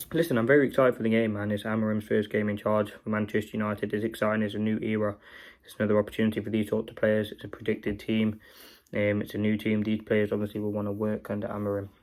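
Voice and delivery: muffled voice, like through a hand. Real, not acted. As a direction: speak muffled, hand over mouth. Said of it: "Sorry it's a bit of a muffled one".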